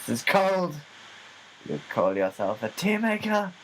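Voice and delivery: high, scornful diva voice; pampered star scolding a roadie. Pretend. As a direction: sneer at the tea maker. Playing diva.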